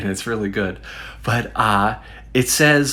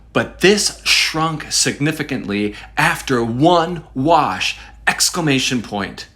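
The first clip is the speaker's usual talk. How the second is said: "this shrunk significantly after one wash" punched higher, word by word; emphatic review reading; 5 semitones higher than usual. Acted. Reading a complaint to viewers, "one wash" stressed high.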